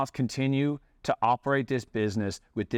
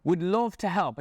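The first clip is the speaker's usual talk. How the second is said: sweetly offered reply; 6 semitones higher than usual. Retold or imitated.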